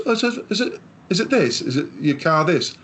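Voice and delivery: high, quick imitating mechanic; eager mechanic. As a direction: play the mechanic catching on fast.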